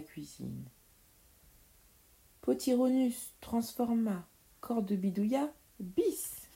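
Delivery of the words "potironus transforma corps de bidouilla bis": higher-pitched spell casting, building to the last word; magic incantation. Acted. Witch's spell cast at midnight.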